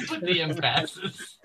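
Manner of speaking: "emphasis" as em-PHA-sis, slowed and laughing; imitated wrong stress. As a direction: echo the joke, leaning on the middle of "emphasis". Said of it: "emphasis on the wrong syllable".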